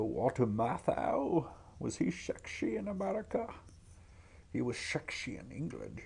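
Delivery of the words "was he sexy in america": whisper. Acted. Gossiping aside.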